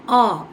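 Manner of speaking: "ஆ" held out as an open "aw"; isolated vowel sound. Shown as a demonstration. Teacher singling out the vowel sound, firm open "aw". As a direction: give "ஆ" alone, firmly. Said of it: "இந்த sound".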